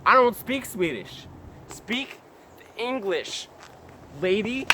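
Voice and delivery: high, slow, spaced-out words; exasperated retold reply. Jogger to Swedish-speaking lady, exasperated and over-clear. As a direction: spell it out slowly for someone who can't understand.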